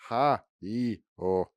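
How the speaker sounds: lightly voiced manic comic yelps; hooting, zany bursts of sound; Robin Williams impression. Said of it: "that was my Robin Williams impression".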